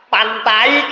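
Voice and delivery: "pantai" dieja dengan bunyi "ai" utuh; ejaan harfiah. Shown as a demonstration. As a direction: ucapkan "pantai" persis tulisannya, diakhiri a-i. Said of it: "ketika kita nga-, ngeja". ("pantai" dengan diftong "ai" jelas)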